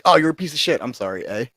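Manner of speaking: mock Canadian accent, insult then apology; a lightly played Canadian accent, apologetic eh at the end. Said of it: "Oh, you can do that accent?".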